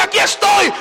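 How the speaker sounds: the devil's taunt, quick and light, falling at the end; the devil claims his ground; devil's boast. Retold or imitated. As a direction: toss it off as the enemy's brag. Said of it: "el diablo dice".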